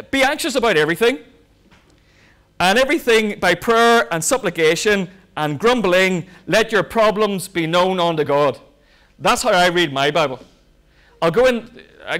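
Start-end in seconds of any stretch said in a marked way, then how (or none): 0.1-8.6 mock misreading. Shown as a demonstration. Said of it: "Let me read the Bible the way we read it".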